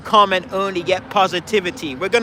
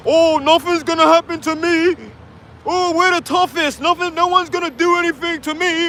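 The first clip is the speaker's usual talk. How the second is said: mock entitled brat; 8 semitones higher than usual. Mocking entitled Brits.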